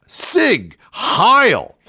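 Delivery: high-pitched, drawn-out mock salute; mock Nazi salute. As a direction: cry it out like a parody rally chant. Mock Nazi salute after news.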